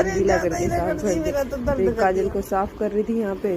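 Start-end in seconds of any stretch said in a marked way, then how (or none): 0.0-1.8 high, slow, sing-song instruction; mother's slow high-pitched coaxing; retold instruction. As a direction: coax the child to wet the cloth, slowly and high. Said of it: "तो मैंने बोला".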